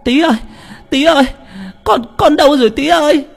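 put-on very high, loud cry for a missing child; clamorous calling. A narrator's reading. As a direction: scream out the child's name in panic. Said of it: "la lên dùm beng". (la toáng gọi con)

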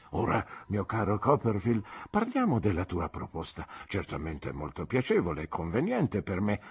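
put-on gentle, encouraging old teacher, unhurried; kindly old doctor. Old doctor questioning his pupil's proposal, gentle encouragement. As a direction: coax a former pupil kindly.

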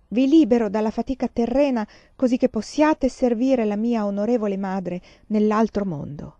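a lightly chanted, ceremonial blessing; intoned blessing. A narrator's reading. A gentleman blessing the freed animals, lightly intoned. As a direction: intone it like a solemn ritual formula. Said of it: "intonò".

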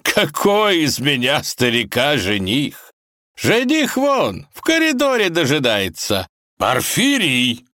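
put-on hammy old kaiser shouting; barking kaiser. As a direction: bellow for Porfiry. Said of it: "рявкнул он".

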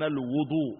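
"الوضوء" said al-wudu, with "u" after the w; damma on the waw. Shown as a demonstration. Teacher reading the hadith, "الوضوء" with damma on waw. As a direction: round "الوضوء" to al-wu-. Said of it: "بالضم".

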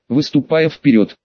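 ordinary delivery, nothing marked

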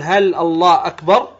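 "الله أكبر" asked as a question, rising at the end. Shown as a demonstration. Teacher showing students how the takbir turns into a question, questioning. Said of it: "وكأنك تسأل تقول".

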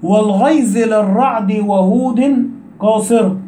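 verse read slowly and evenly; slow poem recitation. Shown as a demonstration. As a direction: recite the line of the poem at an unhurried pace. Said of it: "قال لي".

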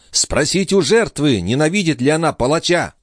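put-on high, bitter young woman; bitter retort. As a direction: throw it back at her jailer.

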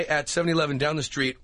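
put-on Indian accent, ending in a sudden yelp. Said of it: "Here's Indian guy".

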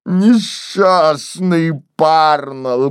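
slow lamenting moan; mild groan. Acted. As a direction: draw it out grieving. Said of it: "громко простонал он". (Кейси стонет о Парнелле, очень медленно)

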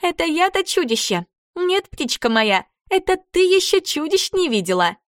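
put-on a ghoul girl taunting her captive, high and menacing; mocking ghoul girl. A narrator's reading. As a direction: sneer like a creepy ghoul girl.

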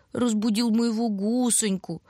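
put-on slow, high cooing to the baby. A narrator's reading. Lusha turns to her baby: slow, high tender cooing. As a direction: coo tenderly to a little one. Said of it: "заворковала она совсем другим тоном".

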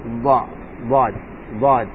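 ضاد made from the left edge of the tongue; dad from the left. Shown as a demonstration. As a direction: produce ضاد on the left side. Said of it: "أو من اليسار". (الضاد من الجانب الأيسر)

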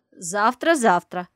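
loud, eager chiming in; eager agreement. Acted. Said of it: "поддакивает бабуля".

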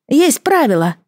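high gurgling water creature. Acted. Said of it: "пробулькало существо".

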